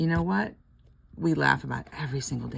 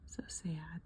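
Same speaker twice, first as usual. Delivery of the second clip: breathy, soft "So sad"; whispered pity; 14 dB quieter than usual. Real, not acted. Pitying the lonely cat in a whisper. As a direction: whisper it sadly.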